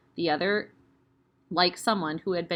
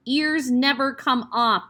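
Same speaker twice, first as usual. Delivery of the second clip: shouted; 5 semitones higher, 5 dB louder, slower than usual. Acted. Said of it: "the Trunchbull shouted".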